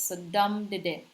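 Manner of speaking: dum de de, stress on the first dum; dactyl demo. Shown as a demonstration. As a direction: hit dum, then two light de de. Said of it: "starts with accented syllable".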